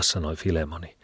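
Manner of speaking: usual speaking voice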